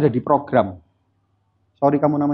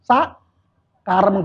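drawn-out dismissive shrug; 2 semitones higher, much slower than usual. Shown as a demonstration. Giving up after being nagged too long.

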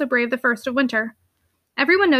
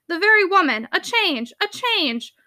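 mocking exclamation; 3 semitones higher than usual. Uncle ridiculing his niece's longing for change, mocking. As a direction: scoff at a feminine whim.

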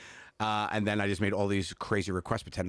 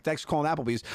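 mock hostess; 7 semitones higher than usual.

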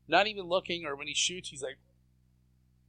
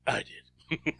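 self-important actor. Retold or imitated. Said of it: "He goes".

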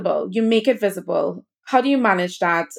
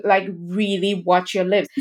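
slow mocking. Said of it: "they were like".

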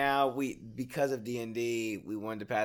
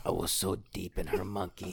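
gravelly comic impression, laughing; raspy comedian voice breaking into laughter; Joey Diaz. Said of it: "cigarette voice like Joey Diaz".

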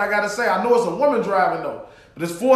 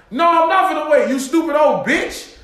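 raised, indignant retort; going off; 4 semitones higher than usual. Retold or imitated. Answering the woman in the back seat, indignant. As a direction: refuse indignantly, dragging out the insult. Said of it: "the more I'm going off".

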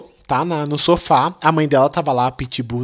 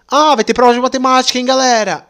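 teacher announcing; 6 semitones higher than usual. Retold or imitated. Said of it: "o que aconteceu".

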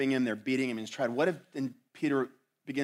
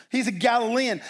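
loud, high-pitched accusation; insistent assertion; 10 semitones higher, 7 dB louder than usual. Acted. Bystander points out Peter as a Galilean, insistent accusation. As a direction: assert it as a certain fact. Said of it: "another one asserted".

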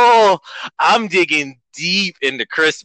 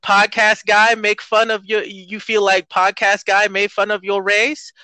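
higher, louder taunting character voice, slowing on the last question; mocking put-on voice; 8 semitones higher, 4 dB louder than usual. Host taunting offended listeners, higher mocking put-on voice. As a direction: tease the offended listener in a silly voice.

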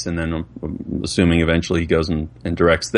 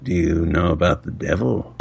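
spooky voice; 3 semitones lower than usual. Pretend. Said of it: "Do the devil thing, Dad".

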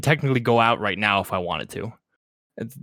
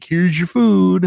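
high slow mock delivery voice; 9 semitones higher, 7 dB louder, much slower than usual. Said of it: "be like".

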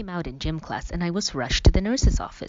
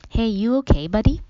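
gently worried, a little higher; concerned; 6 semitones higher, 4 dB louder than usual. A narrator's reading. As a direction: ask with real concern for your son. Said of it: "he asked in a voice full of concern".

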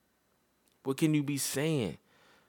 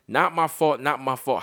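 mock whiny kid; 3 dB louder than usual. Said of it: "building up a whole bunch of".

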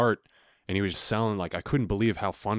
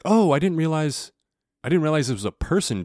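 surprised neighbor; 8 semitones higher, 5 dB louder than usual. Retold or imitated. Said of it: "He was like".

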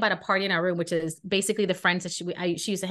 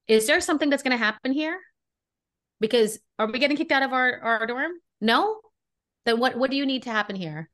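raised, challenging pitch, daring her to answer; confrontational Brooklyn; 4 semitones higher than usual. Retold or imitated. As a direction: stand your ground, a touch of Brooklyn sass. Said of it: "my grandma comes out of me".

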